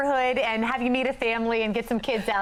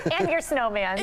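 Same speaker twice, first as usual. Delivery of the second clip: kind gentle laugh. Real, not acted. Teasing reporter about snowman.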